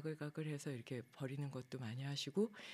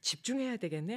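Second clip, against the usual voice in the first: self-resolving thought; 8 semitones higher, 5 dB louder than usual. Retold or imitated. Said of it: "하고 포커스를 내면으로 맞출".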